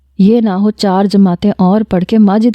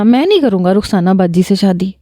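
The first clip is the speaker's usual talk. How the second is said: tired tearful repeat. Retold or imitated. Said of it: "اپنے آنسو صاف کرتے ہوئے".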